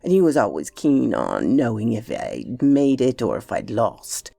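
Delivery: lightly voiced servant, pitch swinging widely; deferential Bassett. Bassett recounts bets to Oscar, lightly voiced deference. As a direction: spin it out like a respectful storyteller.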